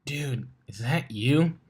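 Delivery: slow, drawn-out teasing question; lightly voiced mare, poking fun; Dash's voice, amused. A narrator's reading. Dash teases Blitz over his growling stomach, slow and amused.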